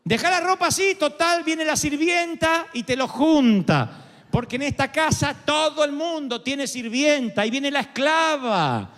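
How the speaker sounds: lightly voiced mother, dripping irony; ironic mother. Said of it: "Mi mamá".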